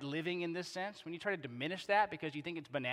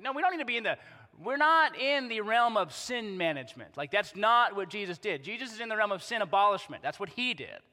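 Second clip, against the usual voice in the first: emphatic retort; 3 semitones higher, 5 dB louder than usual. Retold or imitated. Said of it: "I'm like".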